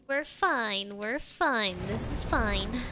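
low, soft reassurance; self-reassuring. Real, not acted. Streamer reassuring herself after losing her temper.

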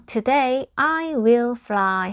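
slow, clearly enunciated read-aloud of Piggie; lightly voiced storybook pig, drawn out word by word; Piggie's line. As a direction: announce it slowly as Piggie. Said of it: "보시면 이제 피기가".

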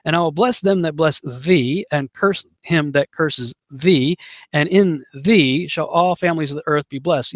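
each "thee" set apart and leaned on; weight on every "thee" with a break after it; stress on THEE. Shown as a demonstration. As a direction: read the verse deliberately, landing hard on "thee". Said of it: "You notice I stress, stress the word".

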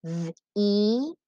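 "V-E-T-O" as held separate sounds, not letter names; sounding out. Shown as a demonstration. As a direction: tap through "V-E-T-O" sound by sound. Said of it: "finger tap the sounds in each syllable".

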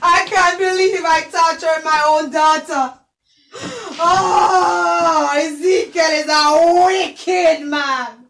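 drawn-out crying lament; wailing lament. Acted. Queen lamenting what she did to her daughter, wailing. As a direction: mourn it aloud, voice breaking.

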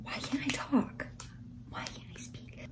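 puzzled whisper, no voice at all; whisper, laughing at your own lost voice; breathy unvoiced whisper. Real, not acted. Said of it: "I don't know why I'm whispering".

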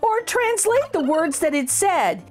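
lively read-aloud storytelling voice; story narration. A narrator's reading. Teacher reading a funny turkey book to children, lively storytelling. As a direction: read it like a bouncy rhyme for kids.

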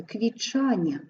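"квічання" with тч merged into a long ch. Shown as a demonstration. Teacher showing тч pronounced as long ch. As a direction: hold the ch in "квічання". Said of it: "вимовляємо як чи довге".

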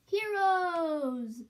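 high, loud buzzy shout; Fly Guy cheer. Acted. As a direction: cheer it like a tiny fly hero. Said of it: "Fly Guy said".

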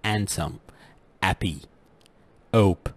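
handsome, happy, hope without H; Cockney silent H; dropped H. Shown as a demonstration. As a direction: drop every H: andsome, appy, ope. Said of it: "ما ينطقون حرف ال H".

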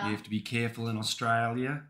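put-on Australian warning; mock Australian accent. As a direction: warn like an Australian, rising at the end. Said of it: "do an Australian accent".

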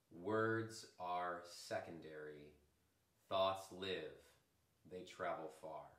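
slow, deliberate recital with pauses between sentences; measured quote reading. Acted. Meditation teacher quoting an old yogi to the class, measured reading. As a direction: let each sentence of the saying land slowly.

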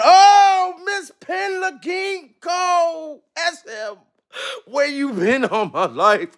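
high, slow, stretched shout of her name; overjoyed greeting to a generous viewer; delighted call-out. Real, not acted. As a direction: serenade the donor playfully. Thrilled by a super chat.

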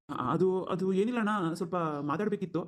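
halting, with false starts; hesitant stammering. Acted. Younger brother asking his elder brother for a talk, hesitant. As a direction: stumble into the request. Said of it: "ಅದು ಅದು ಅದು ಅಂತ ತೊದಲಿಸ್ತೀಯಾ".

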